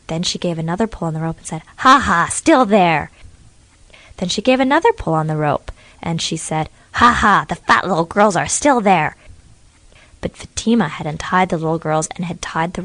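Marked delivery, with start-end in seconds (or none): 1.8-3.1 slow, louder ha ha of a smug witch; gloating witch. Acted. Witch tugging the rope, slow smug gloat. 6.9-9.1 slow, louder ha ha of a smug witch; gloating witch. Acted. Witch tugging the rope, slow smug gloat.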